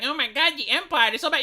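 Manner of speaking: a touch of whiny complainer; mock whiner. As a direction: lightly mimic a whining critic. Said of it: "It's like".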